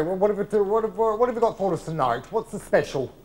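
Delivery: ordinary talk, nothing marked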